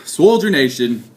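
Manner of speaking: stretched, high, slow hype opener; drawn-out hype greeting. Acted. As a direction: draw the greeting out like a showman. Drawn-out channel intro greeting.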